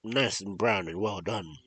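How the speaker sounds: coaxing sly witch. Acted. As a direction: lure her in sweetly. Witch coaxes Gretel.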